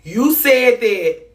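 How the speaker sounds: high, loud, slow "You said that"; 1 accusing exclamation. Real, not acted. Reading a comment aloud, she protests in high disbelief. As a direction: call them out in disbelief.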